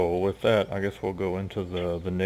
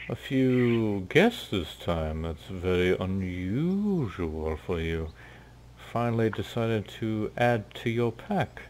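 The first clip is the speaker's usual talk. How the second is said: lightly voiced sly dark elf, slow and smooth; a hint of a scheming elf leader; 3 semitones higher, slower than usual. GM speaks as the dark elf to Koshka, sly and slow.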